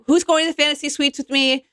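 high, fast mock villain taunt; brash villain. Mimicking Kelly as the self-proclaimed villain of the show, brassy and fast. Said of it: "She's like".

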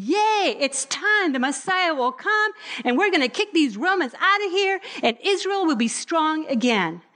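a hint of eager shepherds; excited shepherds. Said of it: "they're thinking".

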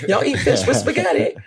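amused, incredulous ribbing; laughing disbelief. Real, not acted. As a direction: tease them through a laugh. Teasing a panelist, laughing.

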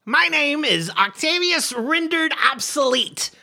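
silky smooth-talker voice; smooth charmer voice. Acted. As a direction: lay on the charm. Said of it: "With that voice".

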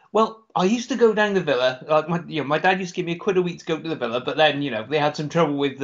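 lightly attempted Brummie accent; poor Brummie accent. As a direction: imitate a Brummie, not very well. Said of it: "a Brummie accent from me".

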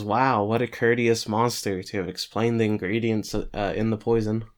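dry sarcastic quote; mock admiration, lightly voiced. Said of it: "Ron kinda sarcastically says".

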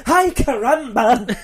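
slow, high put-on voice; hammed-up cartoon exclamation; mock exclamation. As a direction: drawl it in a silly voice.

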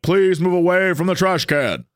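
flat mechanical robot command; mock police robot warning; robot voice again. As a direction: say it like a machine ordering you off. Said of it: "and it was like".

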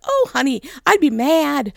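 sweetheart phone lady. Retold or imitated. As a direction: lightly imitate a sweet lady commiserating. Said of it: "just a sweetheart".

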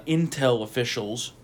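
slow sarcastic air quotes on "intel officials". Real, not acted. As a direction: say it like it's in scare quotes. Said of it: "heavy air quoting on this".

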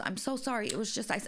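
lightly voiced flustered old woman; a hint of a sorry elderly cashier; apologetic old lady. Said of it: "she goes".

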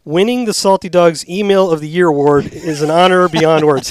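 lightly declaimed award speech; mock acceptance speech. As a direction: read it like you're at a podium. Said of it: "acting like he's at a podium accepting the award".

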